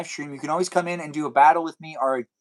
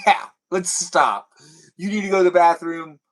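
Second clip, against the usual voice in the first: emphatic agreement; 4 semitones higher, 5 dB louder than usual. Acted. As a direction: play the eager, obliging partner. Acted agreement to stop for partner.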